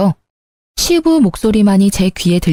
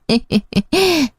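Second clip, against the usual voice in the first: higher-pitched acted chuckle; short falling titter; laugh; 7 semitones higher, 3 dB quieter than usual. Mother-in-law laughs after giving orders.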